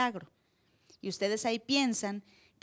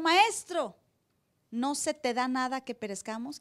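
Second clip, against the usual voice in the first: leve reclamo. Retold or imitated. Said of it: "le dijeron".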